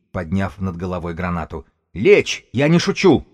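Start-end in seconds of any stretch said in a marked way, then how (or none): 1.9-3.3 high, loud squealed threat; thin-voiced yell. A narrator's reading. Bomber warning the room he means it, thin high yell. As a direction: shout it sharply in a tiny high voice. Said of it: "заорал Бабак своим тоненьким голоском".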